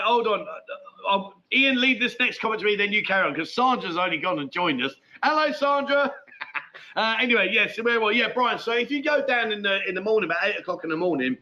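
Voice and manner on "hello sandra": laughing hello. Real, not acted. Sandra joins the live chat.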